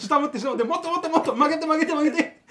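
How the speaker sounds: high, loud eager urging; excited shouting. Acted. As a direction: yell it like pushing someone on. Acting out drunk couple bending TV.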